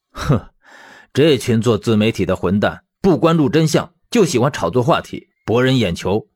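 scornful huff, then indignant rant; contemptuous, contained outburst; angry cursing. Acted. Man cursing the media over his friend's firing, angry. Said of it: "魏正义大骂一句".

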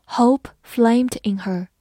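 whole sentence read slowly in one flow; careful teacher reading, one phrase; smooth model reading. Shown as a demonstration. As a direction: say it all in one slow line. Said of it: "好，慢读一遍。".

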